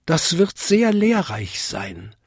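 high tinkling little bell; high, small bell voice; Vinzi. A narrator's reading. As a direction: pipe up politely in a small high voice. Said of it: "bimmelte Vinzi".

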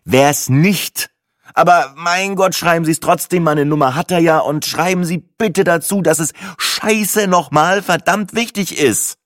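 wütend. Acted. Kunde verliert die Geduld.

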